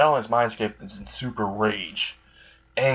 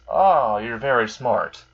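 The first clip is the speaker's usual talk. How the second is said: impressed; 3 dB louder, slower than usual. Acted. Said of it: "And Alistair says".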